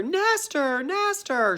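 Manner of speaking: high, anxious calling; calling mother. Retold or imitated. Mother calling for Nestor, high and anxious. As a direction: call out for your lost son. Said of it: "His mother".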